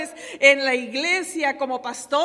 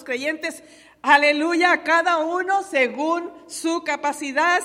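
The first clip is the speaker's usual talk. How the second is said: preaching at full force; 2 semitones higher, 4 dB louder than usual. Acted. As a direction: lift the church with each line. Preaching about spiritual gifts. (predicación a todo pulmón, fuerte y pausada)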